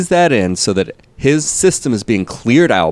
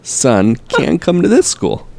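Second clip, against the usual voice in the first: mock offended; 6 semitones higher, slower than usual.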